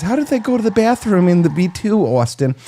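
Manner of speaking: botched imitation in a New York accent; lightly done New York accent; attempted New York accent. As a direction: quote her in a put-on New York accent. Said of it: "that's a New York accent".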